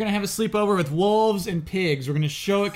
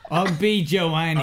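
laughing; 3 semitones lower, slower than usual. Acted. Repeating the silly name.

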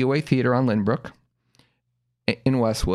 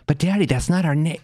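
higher, lightly imitated child; mildly voiced puzzled kid objecting; protesting little sister; 5 semitones higher than usual. Sister corrects dad at the door, mildly protesting.

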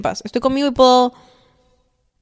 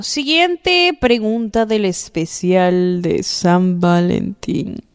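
drawn-out announcement; much slower than usual. Shown as a demonstration. Announcing the next segment.

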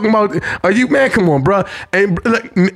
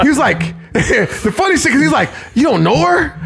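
laughing; 7 semitones higher than usual. Real, not acted. Laughing while retelling.

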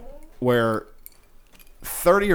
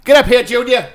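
high, loud mocking dad; mean dad voice; 11 semitones higher, 6 dB louder than usual. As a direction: bark it like a mean father. Parent voiced mean to kid.

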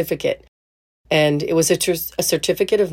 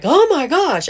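high-pitched disbelief; 11 semitones higher, 5 dB louder than usual. Retold or imitated. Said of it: "for him to be like".

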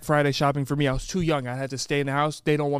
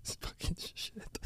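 suppressed laughter; 3 semitones higher, 17 dB quieter than usual. Real, not acted. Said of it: "You look like you're in pain".

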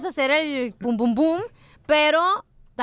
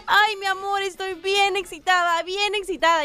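slightly raised, drawn-out wifely voice; lightly acted wife announcing herself in bed; imitated wife; 4 semitones higher, slower than usual. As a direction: draw it out for the husband. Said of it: "La esposa de Piolín le dice".

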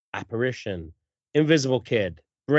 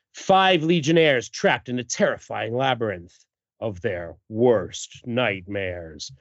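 dramatic blurb reading; 3 semitones lower than usual. Acted. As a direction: draw out the doom, sinking lower.

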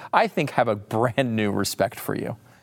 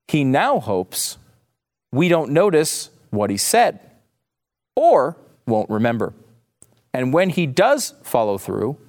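very slow, emphatic word-by-word reading; giving it straight; 3 semitones higher, slower than usual. Shown as a demonstration. Host rereading a garbled quote for listeners, slow and deliberate. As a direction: spell it out slowly with long pauses, mock-careful. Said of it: "let me give it to you, uh, straight".

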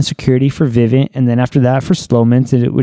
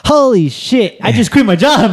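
retold shock; 8 semitones higher than usual. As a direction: relive the panic of quitting. Realizing family kicked out.

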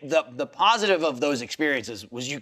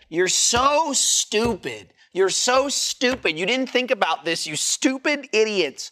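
mock scolding; 5 semitones higher, slower than usual.

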